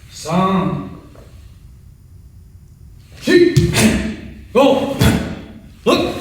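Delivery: sharp high shouted count; counting workout reps. Shown as a demonstration. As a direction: bark each count like a dojo instructor. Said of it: "I'm gonna count it out for you guys step by step".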